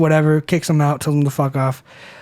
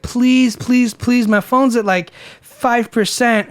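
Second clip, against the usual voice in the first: higher-pitched mock begging; pleading, pitched up, in imitation; retold pleading; 5 semitones higher, slower than usual. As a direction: imitate someone begging for a favor. Girl begging, phone dying.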